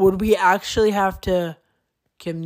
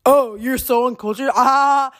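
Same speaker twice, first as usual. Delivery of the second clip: mocking classmate; 3 semitones higher, 4 dB louder than usual. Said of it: "And he's like, ... everyone starts laughing at you".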